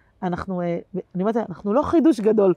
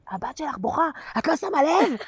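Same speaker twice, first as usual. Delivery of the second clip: quoting the woman's rebuke while cracking up; mock reproach breaking into laughter; laughing mock quote; 7 semitones higher than usual. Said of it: "ואז היא אומרת לי". (ציטוט נוזף תוך צחוק)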